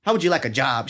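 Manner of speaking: loud, high imitation country accent; rowdy country accent. News director offering a student a job, rowdy country accent. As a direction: greet them in a rowdy country voice. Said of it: "he had this rowdy country accent".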